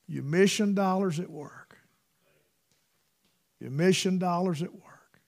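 whispered Maine-mission aside, no voice; retold whisper. Brother Jones whispering to preacher.

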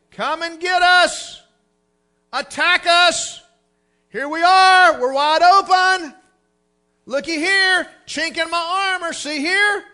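loud, slow mocking taunt; taunting devil voice. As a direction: call out like a gloating devil. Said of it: "to say".

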